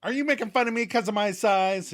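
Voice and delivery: mocking disbelief climbing high; scoff, then rise into an offended question; derisive. Katie dismissing Joey's complaint about punches, derisive. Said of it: "Katie derides that opinion".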